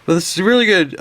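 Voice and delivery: words stretched by a yawn. Real, not acted. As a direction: talk through a rising yawn. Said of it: "I'm trying to yawn".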